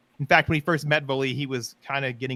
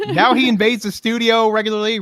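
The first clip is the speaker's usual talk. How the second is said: laughing; 9 semitones higher, 10 dB louder than usual. Real, not acted. Laughing while telling tale.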